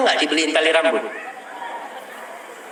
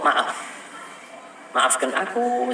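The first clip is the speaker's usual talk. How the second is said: minta maaf lembut; 6 dB quieter, much slower than usual. Retold or imitated.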